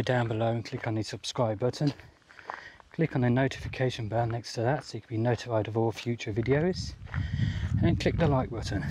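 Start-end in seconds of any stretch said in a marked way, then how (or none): 2.9-8.8 breathless, catching breath between words; winded talking on the trail. Real, not acted. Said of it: "Excuse me, out of breath".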